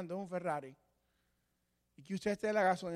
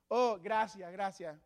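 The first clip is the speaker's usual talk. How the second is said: mock polite thanks; slower than usual. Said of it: "reconocer esa verdad intelectualmente".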